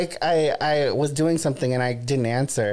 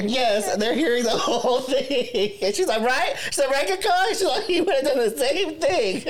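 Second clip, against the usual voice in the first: much higher, squeaky voice imitating the friend; mock friend voice; 12 semitones higher than usual. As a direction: parody her chirpy self-justification, pitched way up.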